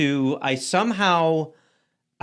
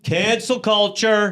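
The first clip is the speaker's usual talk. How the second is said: slow, raised-pitch mimicry; mocking complaint; 4 semitones higher, slower than usual. Comic mimics performers complaining about backlash, mocking whine. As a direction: draw it out like a whiner.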